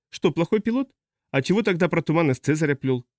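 high-pitched, puzzled questioning; sceptical customs officer. Acted. Customs officer doubts the pilot's tale, high and sceptical. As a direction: query it with lifted pitch.

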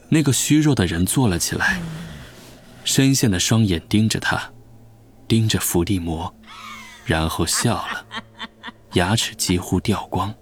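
weak dying prisoner voice; frail old man. Acted. (虚弱苍老的声音)

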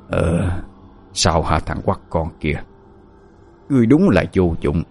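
giọng quỷ ám trầm, nhỏ; nói như quỷ nhập vào người. Acted. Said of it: "Một giọng nói từ trong người". (giọng quỷ ám trầm thấp)

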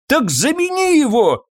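high squeaky yell, pushed and rasping; squeaky rasping shout. A narrator's reading. Master yelling at the stableman to fix the lock, squeaky rasp. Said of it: "крикнул Фабьен писклявым хрипом".

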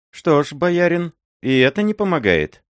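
put-on old miller wondering. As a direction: ask with anxious surprise. Miller questioning prince.

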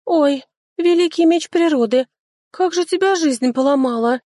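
high, loud lamenting wail; keen over the broken sword; wailing dryad. A narrator's reading. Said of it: "запричитало лесное чудо".

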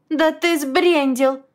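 high, very slow outraged outburst; loud outrage. A narrator's reading. Friend snapping at a grieving man, loud outrage. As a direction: blow up at him, indignant. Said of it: "сорвалась на громкое возмущение".

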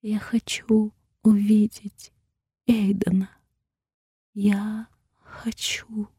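slow, breathy fading whisper. A narrator's reading. Sedated heroine whispering as she fades. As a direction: drift off while begging.

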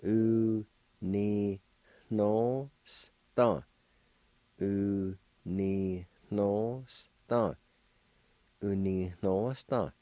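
Unihnosta slow, with the second N nasal and the first one plain; nasalized second N. Shown as a demonstration. Teacher modelling dollars for students, slow and nasal. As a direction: build Unihnosta up from its syllables, then say it whole and slow. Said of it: "The second N in this word is nasalized".

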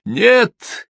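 high desperate shout; wild scream. A narrator's reading. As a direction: scream no in terror. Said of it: "дико закричал Кол". (дико закричал)

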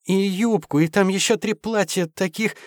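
put-on high, sing-song valley girl chirp; mannered chirping. A narrator's reading. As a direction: chirp it like a spoiled girlfriend. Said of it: "манерным голосом".

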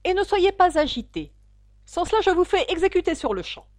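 high, loud royal threat; imperious king ordering a witness about; angry king. A narrator's reading. The king threatens a nervous witness with execution, angrily.

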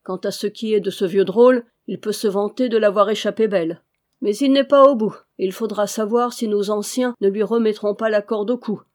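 rising to a loud, angry outburst; a gruff wolf growing heated; gruff retort. Acted. Angry wolf argues back.

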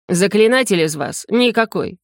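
ordinary delivery

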